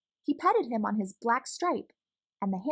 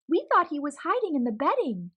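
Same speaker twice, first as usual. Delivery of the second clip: lightly voiced boy; 5 semitones higher, 3 dB louder, faster than usual. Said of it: "the boy said".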